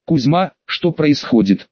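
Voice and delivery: slow, through clenched teeth; through gritted teeth. Acted. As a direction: force it out between teeth. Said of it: "спросил я сквозь зубы". (сквозь стиснутые зубы)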